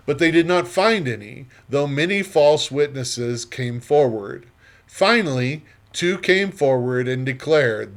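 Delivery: expressive, measured Bible narration; scripture reading. A narrator's reading. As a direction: read scripture aloud with emphatic phrasing. Reads scripture aloud before teaching.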